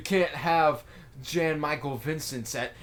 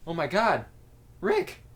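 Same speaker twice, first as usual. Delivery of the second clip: panicked Morty; 5 semitones higher than usual. Retold or imitated. Morty panics about the Worf lady.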